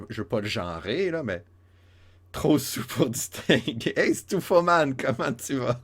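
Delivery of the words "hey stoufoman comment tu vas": put-on a merry drunk calling a name; drunk Irishman. Imite l'Irlandais ivre. (un Irlandais soûl, aigu et fort)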